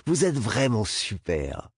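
giddy mocking laugh; hysterical laughter. A narrator's reading. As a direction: laugh out the taunt, high and giddy. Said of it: "Un rire sonore, presque hystérique".

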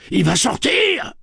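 high, drawn-out warning yell; slow, loud panicked cry; alarmed cry. A narrator's reading. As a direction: shout the warning at full force. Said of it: "cria Tian".

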